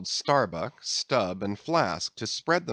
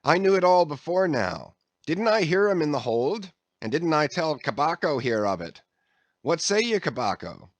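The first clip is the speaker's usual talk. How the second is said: higher, louder eager voice; boastful sailor; 6 semitones higher, 3 dB louder than usual. A narrator's reading. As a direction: prove he knew it all along. Archie boasts to mate.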